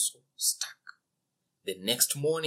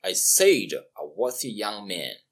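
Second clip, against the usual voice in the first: frowning king; 2 semitones lower, 6 dB louder than usual. Acted. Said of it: "frowned the king".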